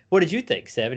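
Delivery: dog voice. Retold or imitated.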